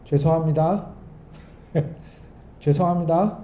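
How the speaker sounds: flippant "죄송합니다" with a laugh and a lilting rise; insincere apology. Shown as a demonstration. Preacher showing a fake apology, laughing and careless. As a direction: toss off "죄송합니다" as if it's a joke. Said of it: "이러면 화해한 거예요, 안 한 거예요?".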